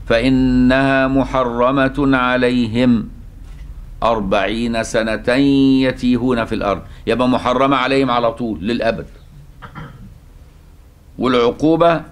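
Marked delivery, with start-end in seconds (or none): 0.1-6.8 slow recited verse; Quranic recitation. Shown as a demonstration. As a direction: recite it slowly, pausing after "سنة". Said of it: "إذا وقف على".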